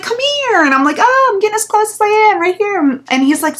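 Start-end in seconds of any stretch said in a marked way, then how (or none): 0.0-0.6 high, coaxing come here; mock creep beckon. The creep luring Leah to his car, high coaxing call. 1.0-3.0 high, edgy keep-away tone; wary refusal. Retold or imitated. Keeping her distance from the creep, high wary reply.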